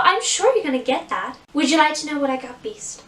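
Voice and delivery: put-on sweet princess chatting with children, American accent; lightly voiced dainty, girly princess; Belle. Shown as a demonstration. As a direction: share a secret gift sweetly, as a princess would. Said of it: "So I would ask the kids".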